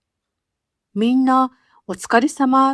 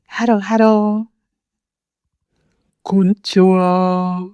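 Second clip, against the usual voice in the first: casual friend greeting; 2 semitones lower than usual. Shown as a demonstration.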